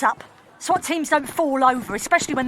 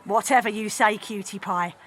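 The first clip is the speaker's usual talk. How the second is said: low, soft menacing villain; menacing purr; 6 semitones lower, 4 dB quieter than usual. Acted. Villain menacing before shooting.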